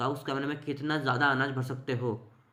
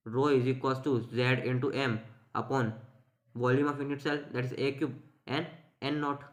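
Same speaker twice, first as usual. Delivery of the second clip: slow dictation; much slower than usual. Shown as a demonstration. Dictates formula to students.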